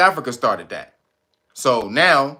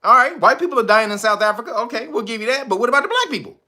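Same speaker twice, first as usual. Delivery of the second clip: mock Trump question; 6 semitones higher than usual. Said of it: "He said".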